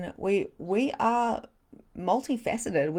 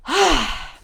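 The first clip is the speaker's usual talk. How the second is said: release sigh; 10 semitones higher, 11 dB louder than usual. Real, not acted.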